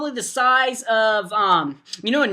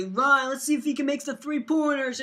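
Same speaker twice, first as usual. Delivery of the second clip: higher-pitched mock commentary; making fun; 5 semitones higher than usual. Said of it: "I was just making fun".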